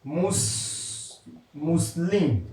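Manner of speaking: "Muslim" broken after "Mus", then completed, low; careful Dutch pronunciation. Real, not acted. Preacher attempting Dutch from his signboard, careful pronunciation of "Muslim". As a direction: sound out "Muslim" haltingly, first syllable alone. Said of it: "Forgive my pronunciation in Dutch".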